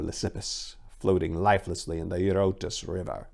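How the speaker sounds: steady storyteller reading a dark tale; story narration. A narrator's reading. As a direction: narrate it like an epic told by the fire. Reads a Spartan story aloud.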